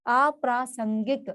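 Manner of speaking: अप्रासंगिक drawn out slowly with a slight rise; slow model word. Shown as a demonstration. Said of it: "जैसा बोलेंगे वैसा ही लिखना है".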